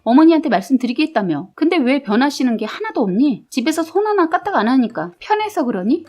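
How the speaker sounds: mildly acted anger, rising in pitch; angry scolding. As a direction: tell off a partner, increasingly exasperated. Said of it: "제가 화가 나서 뭐라고 했습니다".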